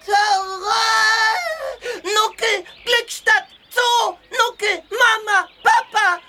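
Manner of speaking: happy wailing shouts; excited crying outburst. Acted. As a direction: shout it out, beside himself. Baby elephant bursts out excitedly.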